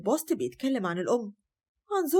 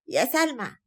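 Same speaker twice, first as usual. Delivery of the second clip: calling out across the flat; grandmother's first call to Salma; 4 semitones higher, slower than usual. Acted. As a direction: summon the girl from the next room. Grandmother calls granddaughter twice.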